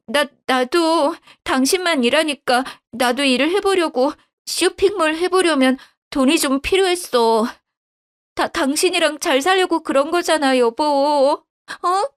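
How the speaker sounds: a caught liar begging sweetly; wife pleading with her husband. Acted. Wife stammers excuses.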